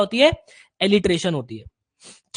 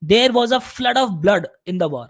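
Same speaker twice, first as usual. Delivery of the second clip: slow example sentence; 2 semitones lower, much slower than usual. Shown as a demonstration. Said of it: "जैसे कि".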